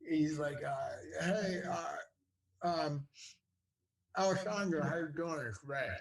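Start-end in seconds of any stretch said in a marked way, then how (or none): 1.2-5.9 easygoing phone greeting as Ray Liotta; Ray Liotta impression. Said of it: "Good impression".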